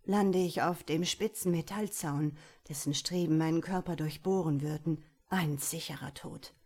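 trembling, rushed then fading; shaky breathless pleading. Acted. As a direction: voice shaking with fear. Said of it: "sagte er mit zitternder Stimme".

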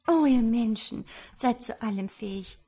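reproachful exclamation, strongest at the start; a high, loud "Oh" that then settles; crying out. A narrator's reading. Fly accuses humans to the farmer, crying out in reproach. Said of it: "rief die Fliege".

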